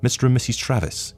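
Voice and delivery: high-pitched call without shouting. A narrator's reading. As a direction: call their names across a room. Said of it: "he called".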